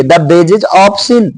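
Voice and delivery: reading the phrase to the class; slow dictation of the phrase. Shown as a demonstration. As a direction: stretch out the phrase word by word. Rereading the phrase.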